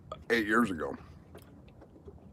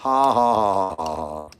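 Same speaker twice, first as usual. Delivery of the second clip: laughing; 4 semitones lower than usual. Real, not acted. Laughing at own joke.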